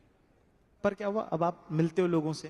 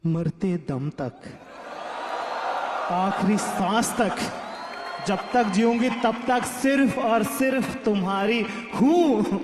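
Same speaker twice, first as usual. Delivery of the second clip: mock tearful vow; slower than usual. Girlfriend's tearful vow quoted.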